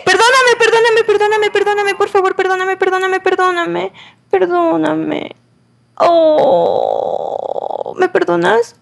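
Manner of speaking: high panicked pleading that slowly calms; frantic apology. Real, not acted. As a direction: beg forgiveness over and over, panicked. Frantic apology after hitting partner.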